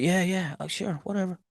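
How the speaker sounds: soft, unenthused sure-whatever; unenthused mumble. Retold or imitated. Aubrey brushing off her friend's promise, soft and unenthused. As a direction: brush it off half-heartedly. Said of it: "Aubrey's like".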